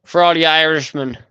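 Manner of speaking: bad Irish accent. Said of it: "I don't know what accent that was".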